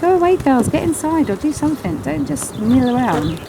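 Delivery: high, half-playful shoo at the bees. Real, not acted. Beekeeper shooing milling bees back into the hive, high and teasing.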